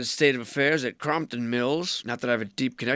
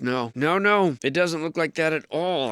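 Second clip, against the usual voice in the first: sarcastic; 3 semitones higher, 3 dB louder than usual. Pretend. Sightseer denying the ground was ever altered, sarcastic. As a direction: protest too much, sarcastically. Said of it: "I said sarcastically".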